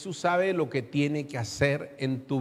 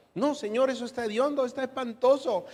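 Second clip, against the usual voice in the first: Martha objecting; 6 semitones higher than usual. Acted.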